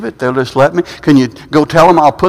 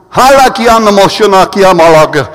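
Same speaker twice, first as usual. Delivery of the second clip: imitating speaking in tongues; 3 dB louder than usual. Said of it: "started going".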